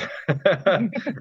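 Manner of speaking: a burst of real laughter; breaking into laughter. Real, not acted. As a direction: laughs mid-sentence, losing composure. Laughs mid-reading.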